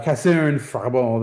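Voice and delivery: a hint of a French accent on Cassin Frabold. Shown as a demonstration. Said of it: "my attempt at a French accent".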